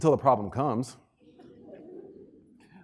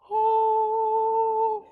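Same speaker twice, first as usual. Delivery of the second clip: dismissive oh. Retold or imitated. Dismissive "oh" reaction quote.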